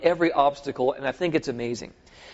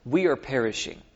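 mock panic; slower than usual.

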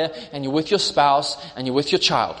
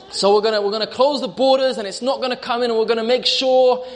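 higher-pitched mock royal announcement; the Queen's announcement; 5 semitones higher than usual. The Queen on television addressing a scared nation, lightly voiced royal. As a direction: lightly play a queen reassuring her country. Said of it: "the Queen, she comes on the television and she's like".

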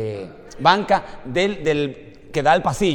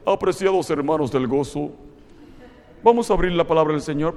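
lower, stiff formal sermon opening; stiff pompous preacher; 3 semitones lower than usual. Pretend. Preacher mocking a stiff formal preacher he will never be. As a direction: put on a solemn pulpit voice. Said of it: "Usted nunca va a escuchar un sermón".

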